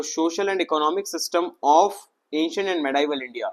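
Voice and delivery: slowly reading out the unit title; deliberate read from the syllabus page. Real, not acted. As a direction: spell each word out like a heading.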